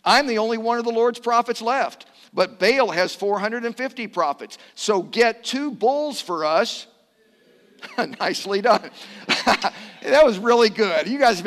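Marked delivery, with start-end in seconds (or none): 0.0-6.9 raised, loud prophet's declaration; Elijah. Acted. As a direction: declare it to the crowd, higher and louder. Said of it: "Then Elijah said to them".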